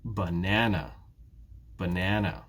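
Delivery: "Banana" with NAN as the strong beat; teacher's model of "Banana", stressed in the middle; stress on second syllable. Shown as a demonstration. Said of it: "It's the second syllable".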